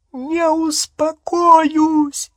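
very high, slow, loud shriek; shrieking refusal. Acted. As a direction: scream it back at him at full pitch. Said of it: "завизжала она".

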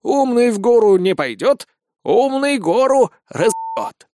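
high, slow scheming granny voice; cunning old woman. Acted. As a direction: relish it like a sly old crone. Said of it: "Расплывшись в коварной улыбке". (коварная старушка)

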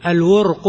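الورق with u, vowelless ra, then final u; vowelling of الورق. Shown as a demonstration. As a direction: say الورق as al-wurqu, damma on waw and qaf. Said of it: "بضم الواو وسكون الراء".

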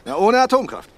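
high and loud, a zealot's cry; fervent exclamation. Acted. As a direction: proclaim it like a sacred vow. Cult leader proclaims his creed.

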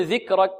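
ذكرك with hard clicked ك; students' kaf mistake. Retold or imitated. Teacher quoting some students, kaf without breath. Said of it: "بعض الطلاب يقول".

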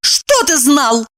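high, slow, irritated; angry. A narrator's reading. Evdokia angrily demands an answer from Kirillov. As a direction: snap back at him. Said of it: "разозлилась она".

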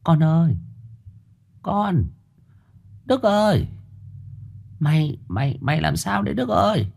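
a frightened mother gently coaxing her son; mother softly calling her dazed son; soft anxious mother. Acted. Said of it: "khẽ cất tiếng để con mình ổn định".

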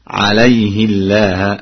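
"عليه الله" as alayhi-llaah with a light l; kasra on the ha. Shown as a demonstration. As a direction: say "عليه الله" with i after ha and a thin lam. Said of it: "بكسر الهاء".

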